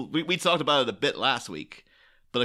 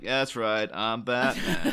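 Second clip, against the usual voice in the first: lazy Costner Batman; slower than usual. Retold or imitated. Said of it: "He'd be like".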